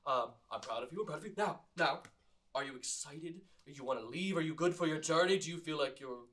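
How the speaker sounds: a hint of the fussy fashion mentor; lightly voiced proud coach, coaxing; Tim Gunn voice. Mirror image fussing over Andro, light Tim Gunn coaxing. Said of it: "a Tim Gunn version of Andro".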